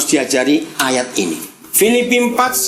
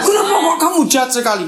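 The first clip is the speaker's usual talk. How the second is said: indignant accusation; 9 semitones higher, faster than usual. Retold or imitated. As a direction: throw the blame back hard. Family member accusing the worker.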